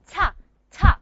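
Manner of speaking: ta with a puff of air; ta with a little h after it; aspirated ta. Shown as a demonstration. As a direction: breathe hard right after the t of ta. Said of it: "We call this an aspirated ta".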